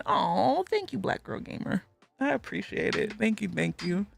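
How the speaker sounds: soft, tender thank-you; quiet, grateful aside; touched thanks. Real, not acted. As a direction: drop your volume and thank them sincerely. Thanks a new viewer's kind message.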